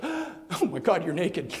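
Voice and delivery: gasp, then high drawn-out astonishment; mock shock at seeing someone naked; shocked discovery. Eve discovers Adam is naked.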